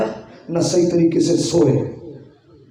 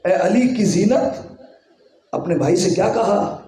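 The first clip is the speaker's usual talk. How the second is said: smiling, laughing. Acted. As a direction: let a laugh through the father's words. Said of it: "علی مسکرانے لگے".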